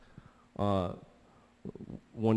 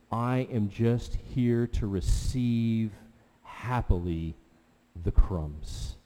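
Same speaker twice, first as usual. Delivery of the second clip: humble and content; 3 dB quieter, slower than usual. Acted. The woman answering Jesus, slow soft humble contentment. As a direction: let it settle down into quiet gratitude.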